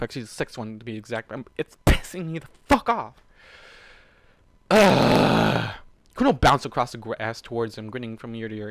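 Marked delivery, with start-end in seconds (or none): 4.7-5.7 loud frustrated ugh; disgusted groan. Real, not acted. Reader groaning loudly in disgust at the chapter.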